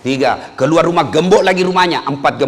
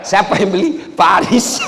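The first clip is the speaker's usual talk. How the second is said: mock shout; 5 semitones higher, 4 dB louder than usual. Comic call and answer.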